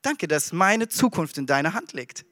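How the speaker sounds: hushed trusting prayer to the Lord; calm quiet prayer. Acted. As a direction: pray it gently and softly. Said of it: "dann kannst du sagen".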